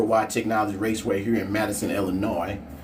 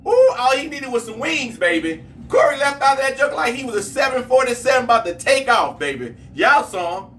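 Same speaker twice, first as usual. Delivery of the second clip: much higher and louder, hollering with delight; thrilled race call; 11 semitones higher, 4 dB louder than usual. Real, not acted. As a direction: whoop about Corey's launch. Reacts to the race result.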